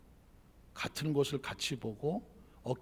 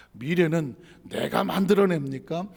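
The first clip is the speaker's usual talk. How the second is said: normal talking voice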